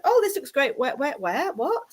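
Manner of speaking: mock startled double take; whiplash reaction. Reader imagining the client's whiplash, mock bewildered.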